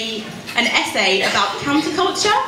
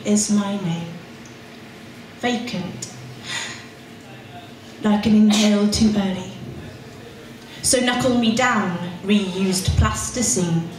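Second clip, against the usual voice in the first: poem performance. Acted. Poet reading her poem to a pub crowd, measured and intense. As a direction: lean on each image, let pauses hang.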